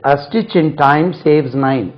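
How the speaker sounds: very slow, word by word, like dictation; slow proverb recitation. Shown as a demonstration. Teacher reciting a proverb to students, very slowly. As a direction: spell out the proverb slowly for learners. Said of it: "இதை வச்சு ஒரு பழமொழி இருக்கு".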